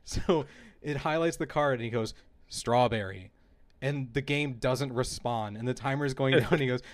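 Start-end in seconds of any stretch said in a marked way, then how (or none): 2.5-3.3 louder, clearly projected imitation of uncle; retold first call. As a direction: call it firmly into a microphone, mildly raised. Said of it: "he's just increasingly yelling in volume".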